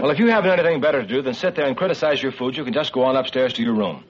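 rapid parental telling-off; curt, irritated father; stern scolding. Acted. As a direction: scold your son and send him off. Father scolds son at table.

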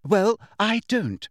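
blunt schoolgirl retort. Acted. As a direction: refuse the point plainly and bluntly. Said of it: "said Hermione bluntly".

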